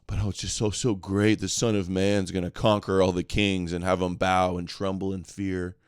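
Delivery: imitating a calm speaker, slightly subdued; mock calm confidence, evenly delivered; calm, confident voice. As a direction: lightly mimic someone calmly assured. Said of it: "he says it with this calm, confident voice".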